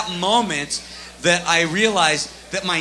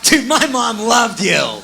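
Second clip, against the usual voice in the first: slow laughing fan line; 5 semitones higher, 6 dB louder, much slower than usual. Retold or imitated. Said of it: "He's like".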